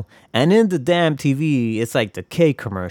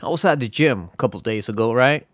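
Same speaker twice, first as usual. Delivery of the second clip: ordinary talk, nothing marked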